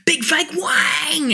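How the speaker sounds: drawn-out announcer boom, slow; slow hammed-up stage announcer call; band announcer. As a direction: introduce the band to a roaring crowd. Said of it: "Ladies and gentlemen, please welcome".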